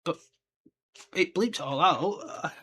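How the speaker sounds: put-on soft, slow little-kid protest; child pleading. Young fan pleading with dad, soft and slow. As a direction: plead softly like an eight-year-old. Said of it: "I was like".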